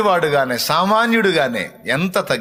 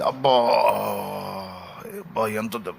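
mock crying; 6 semitones lower, 5 dB quieter than usual. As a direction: fake whimpering "అబ్బా", much softer. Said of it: "ఏడ్చినట్టు నటిస్తే".

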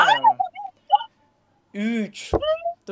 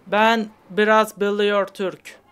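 yabancı taklidi; slower than usual. Pretend. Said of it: "çok iyi bir troll var kafamda".

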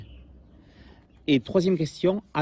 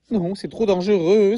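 alarmed cry; 4 semitones higher, 4 dB louder than usual. Acted. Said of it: "s'écria-t-il".

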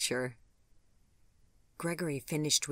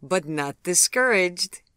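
brightly; 5 semitones higher, 8 dB louder than usual. A narrator's reading. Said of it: "He smiled brightly".

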